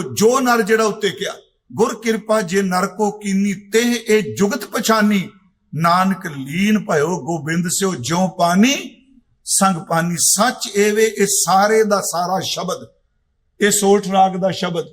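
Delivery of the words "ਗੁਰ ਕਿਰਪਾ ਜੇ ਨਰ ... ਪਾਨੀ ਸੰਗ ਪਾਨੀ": slow, measured recital of the verse; slow devotional recitation; scripture recitation. Acted. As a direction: intone each line with reverence.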